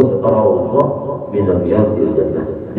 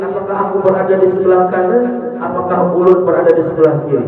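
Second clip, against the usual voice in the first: anxious question; 6 semitones higher, faster than usual. Acted. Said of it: "ujar mayit".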